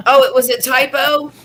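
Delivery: laughing, surprised question; laughing surprise. Real, not acted. Amused at the typo.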